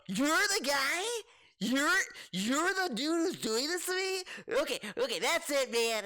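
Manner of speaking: mock shocked realization. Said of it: "he's like".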